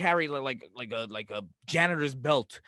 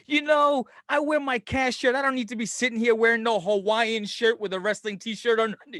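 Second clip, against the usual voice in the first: lampoon the host with a lifted voice; hammed-up parody of a rival podcaster; mock podcast host; 6 semitones higher than usual. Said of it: "They're gonna be like".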